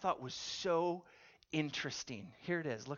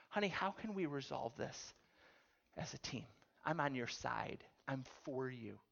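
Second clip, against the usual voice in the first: gentle acted husband, easing softer; compassionate, caring; 3 dB quieter than usual. Husband answers wife who opened up, compassionate and caring. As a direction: offer reassurance without any edge. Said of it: "He's gonna be compassionate and caring".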